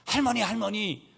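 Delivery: high, urgent mock cry; imitated child calling out. Granddaughter calling grandmother at dinner, imitated cry. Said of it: "소리쳤어요".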